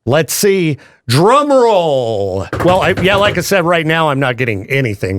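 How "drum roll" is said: mock announcer. Radio host teasing a reveal, mock announcer. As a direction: stretch it out like a game-show reveal.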